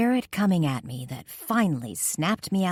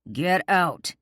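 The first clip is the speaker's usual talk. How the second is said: thundering order; 3 semitones higher, 4 dB louder than usual. A narrator's reading. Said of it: "he thundered".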